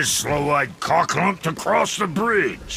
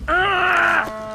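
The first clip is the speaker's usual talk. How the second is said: startled cry; 10 semitones higher than usual. Acted. Startled outburst.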